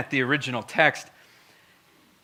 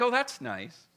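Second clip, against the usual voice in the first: soft, mild mock-pleasant murmur; fluffy tone; 7 dB quieter than usual. Preacher mimicking reader of the text, fluffy and mild. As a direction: brush it off pleasantly, softly. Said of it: "when you read it with the fluffy tone".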